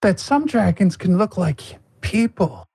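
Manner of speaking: put-on high, sweet child's voice; a little girl sharing a secret. Little girl addressing Peter.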